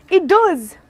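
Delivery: high, loud burst of joy; real delighted exclamation. Real, not acted. Vlogger finding the charger works, loud delighted exclamation. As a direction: cheer it, sudden relief.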